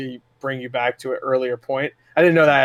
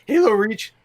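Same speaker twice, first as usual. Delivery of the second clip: voice cracking; 7 semitones higher than usual. Real, not acted. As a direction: voice breaks on the words. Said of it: "my voice broke".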